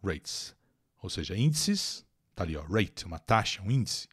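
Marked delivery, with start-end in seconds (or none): 0.0-0.5 slow and deliberate. Shown as a demonstration. Teacher dwelling on the phrase for students, slowly. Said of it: "Mas aqui é advérbio".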